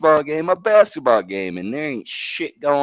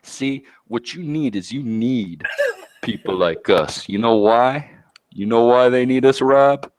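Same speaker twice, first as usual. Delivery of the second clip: slow, drawn-out heel promo; mock tough-guy promo to the fans; wrestling promo voice. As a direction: lecture them like a wrestling bad guy. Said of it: "let me put it down to 'em just like this".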